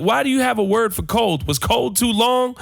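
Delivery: high-pitched, drawn-out mock indignation; exasperated. Comic telling off his roommate over slang, exasperated and high.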